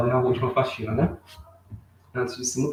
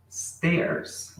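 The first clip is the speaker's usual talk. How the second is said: whispered demo; 2 semitones higher, 6 dB quieter than usual. Shown as a demonstration. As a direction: whisper the word Stairs. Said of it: "Aí nós falamos stairs".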